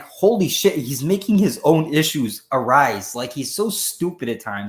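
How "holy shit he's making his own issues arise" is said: exasperated outburst. Retold or imitated. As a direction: blurt it out in disbelief at a dumb hero. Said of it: "I'm like".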